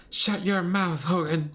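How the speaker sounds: furious scream at Hogan. Acted. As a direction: scream it in rage. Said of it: "he screams".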